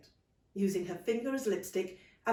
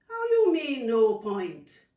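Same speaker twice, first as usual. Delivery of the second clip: surprised aunt; 4 semitones higher, 10 dB louder, slower than usual. Acted.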